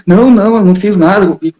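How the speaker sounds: put-on boy's quick denial. Accused boy protests to the reporter, fast and high. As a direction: protest innocence like a caught kid.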